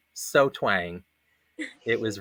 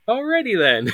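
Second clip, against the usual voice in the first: mock cheerful acceptance; 12 semitones higher, 4 dB louder than usual. Reacting to casting news.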